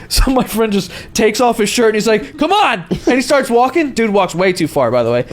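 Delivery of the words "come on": high mock holler; retold call-out, pitched way up; fight challenge. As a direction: imitate a drunk friend squaring up. Friend acted calling out a fight.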